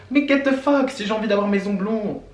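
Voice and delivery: high, angry outburst; getting angry. Real, not acted. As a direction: snap back in outrage. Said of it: "Ouh, je m'énerve".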